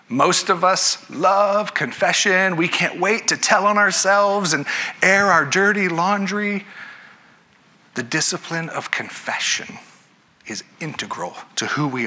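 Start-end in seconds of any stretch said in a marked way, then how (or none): 0.1-6.7 higher, drawn-out mock eagerness; deadpan joke dressed as keenness; sarcastic enthusiasm. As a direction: gush with tongue in cheek, stretching it out. Joking that everyone loves confessing.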